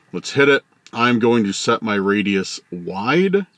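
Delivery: talking while chewing gum; words around a wad of gum. Real, not acted. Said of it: "I need to get rid of my gum".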